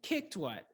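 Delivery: KICKED set apart and punched; stress on KICKED. Shown as a demonstration. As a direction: hit the verb kicked, lighter on what. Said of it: "probably be a verb pattern".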